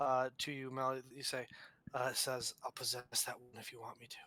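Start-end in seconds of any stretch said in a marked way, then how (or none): 2.6-4.2 soft whisper close at the ear. Voicing something that sneaks up behind a player to speak: whispering from behind. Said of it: "as if someone snuck up behind you to whisper".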